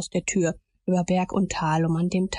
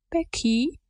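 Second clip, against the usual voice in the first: higher, begging tone on the name; pleading; 6 semitones higher than usual. A narrator's reading. Tom pleading with crying Becky, higher and begging. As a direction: plead gently for an answer. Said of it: "in bittendem Ton".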